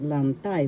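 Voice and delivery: "lantay" said lanTAY; stress on second syllable. Shown as a demonstration. Teacher demonstrating the accented second syllable, "lantay" stressed on "tay". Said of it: "The second syllable has the accent".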